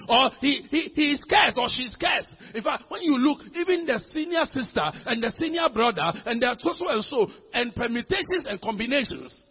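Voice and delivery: emphatic preacher working up the congregation; forceful preaching. Acted. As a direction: pile up the accusations like a preacher. Preaches with force about accusers.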